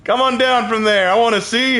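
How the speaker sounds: slow, high, flirtatious drawl; stretched-out admiring hello; flirty greeting. Real, not acted. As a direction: coo at her like a crush. Greeting the spider character.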